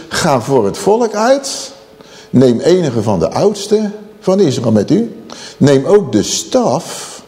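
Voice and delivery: slow, spaced scripture declamation; solemn command. Acted. God instructing Moses, solemn command. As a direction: command it with measured weight.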